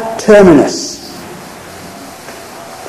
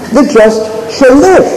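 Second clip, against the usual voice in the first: "live" leaned on, a touch higher; stress on LIVE; 5 semitones higher than usual. Shown as a demonstration. Preacher explaining the middle part of the verse, stress on "live". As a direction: point the listener at "live". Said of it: "is about life".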